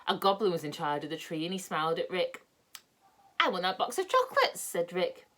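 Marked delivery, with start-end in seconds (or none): 3.4-4.6 put-on higher, childlike asking; a boy pleading for sweets; eager boy voice. Rick asks goblin for chocolates.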